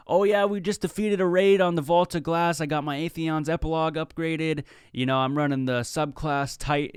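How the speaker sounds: nerdy gamer. Retold or imitated. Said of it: "you sound like the biggest nerd".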